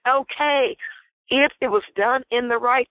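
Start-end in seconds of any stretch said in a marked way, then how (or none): 0.1-0.8 grudging okay. Retold or imitated. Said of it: "wrong tone".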